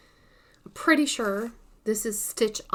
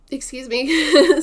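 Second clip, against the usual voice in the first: hiccups; 5 semitones higher, 13 dB louder, slower than usual. Real, not acted. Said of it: "those should stop in a moment".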